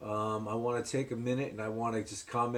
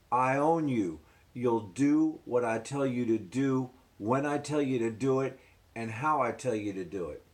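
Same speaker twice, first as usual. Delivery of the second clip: harsh guard's orders. Retold or imitated. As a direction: lay down the law like a prison guard. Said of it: "corrections officers say to me".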